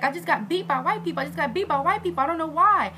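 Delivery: high-pitched mock wail; imitated crying. Crying to bus passengers about the beating, mock wail. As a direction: wail it out without real sobs. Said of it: "looking at people crying".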